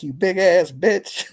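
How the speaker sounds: comic imitation of an irate put-down; retold insult. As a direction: draw out a borrowed insult for laughs. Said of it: "It's the way he said it".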